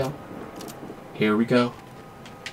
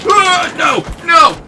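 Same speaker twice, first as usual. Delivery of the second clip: high, loud cry of dismay; loud real protest at being killed; real dismayed shout; 8 dB louder than usual. Real, not acted. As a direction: yell in real shock as you die. Getting killed in game.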